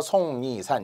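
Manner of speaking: 속리산 as "song-ni-san"; pronounced with assimilation. Shown as a demonstration. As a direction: say 속리산 with nasal ng-n, 송니산. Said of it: "발음에 의해서 속리산 이렇게".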